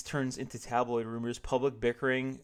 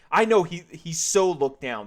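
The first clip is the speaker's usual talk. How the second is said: agreed; 5 semitones higher, 9 dB louder than usual. Acted. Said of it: "the cashier agreed".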